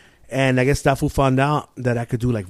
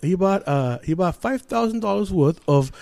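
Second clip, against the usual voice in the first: higher fake-British debt collector; British accent; 4 semitones higher, 6 dB louder than usual. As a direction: prank caller's mock British officialese. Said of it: "I did it like a British accent".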